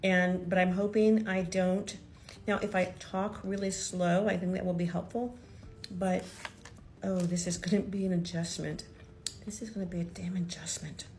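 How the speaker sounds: lisping around a palate expander; speaking with a device in the mouth; talking funny. Real, not acted. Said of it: "I'm, I'm talking funny".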